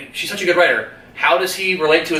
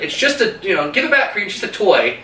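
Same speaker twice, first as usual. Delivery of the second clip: put-on higher, childlike plea; little girl pleading; 6 semitones higher than usual. Little sister begging her mother's victim brother, higher childlike plea. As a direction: imitate a small girl begging for the toy back.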